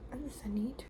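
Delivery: whispered, quietly determined; resolute whisper. Real, not acted. Student resolving to start her assignment at midnight, in a determined whisper.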